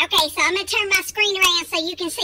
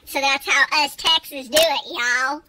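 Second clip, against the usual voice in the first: exaggerated Texan accent; 3 semitones lower than usual. Texan host addressing followers, exaggerated Texan accent. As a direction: play up being a Texan. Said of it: "over-exaggerating my Texan accent".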